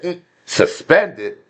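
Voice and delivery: a slow, drawn-out mm, suspended; slow disbelieving suspended. Retold or imitated. Retelling the answer to the boss, slowly incredulous. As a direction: stretch it out in mild disbelief. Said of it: "And I said".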